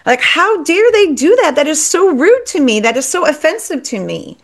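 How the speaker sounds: high-pitched imitation of her old indignation; acting out how she used to overreact to a cancelled dinner; mock outrage. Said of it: "normally I would flip out".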